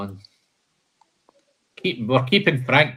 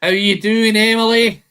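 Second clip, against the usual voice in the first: cheery greeting; 9 semitones higher, 6 dB louder than usual. Real, not acted. Greeting a viewer joining the stream.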